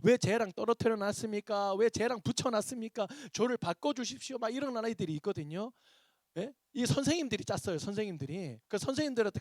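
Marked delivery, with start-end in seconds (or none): 0.0-4.4 mock complaining kid, pitched up; imitated protest. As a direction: protest like an aggrieved youngster, higher-pitched. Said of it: "저한테 와서 막 항의를 하는 애가 있어요".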